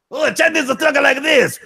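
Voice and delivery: high squeaky caricature. Acted. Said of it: "your difference between the Japanese and Chinese impression".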